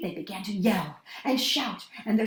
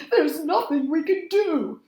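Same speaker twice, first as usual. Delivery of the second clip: afraid; 6 semitones higher, 5 dB louder than usual. A narrator's reading. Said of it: "answered in a chorus".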